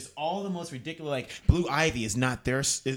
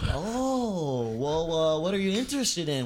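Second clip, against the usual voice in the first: put-on rapid old-time reporter; 3 semitones higher, 5 dB louder than usual. Newsboy selling to customer.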